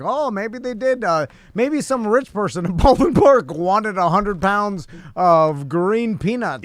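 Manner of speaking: mildly put-on concerned voice; pretend concern. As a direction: feign concern, stretching out the last words. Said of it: "I have to pretend like I'm concerned".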